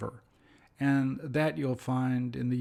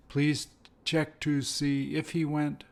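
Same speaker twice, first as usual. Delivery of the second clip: slow, even repeat with "if"; slow model sentence. Shown as a demonstration. Teacher giving the matching variant slowly. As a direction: read it out carefully. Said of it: "They're the same".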